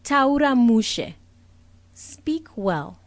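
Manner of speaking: a hint of an aunt correcting her nephew; aunt to mumbling nephew, firm and loud; telling a toddler to speak up. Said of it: "when my nephew is mumbling".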